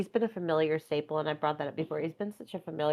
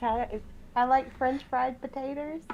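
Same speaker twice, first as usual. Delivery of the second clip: slow, higher put-on Sling Blade voice; Sling Blade impression; 6 semitones higher, slower than usual. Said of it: "Sling Blade".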